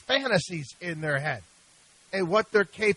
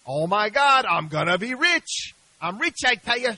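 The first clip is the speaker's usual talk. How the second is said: Daffy Duck greed; 3 semitones higher, 3 dB louder than usual. Retold or imitated. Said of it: "like Daffy Duck would say".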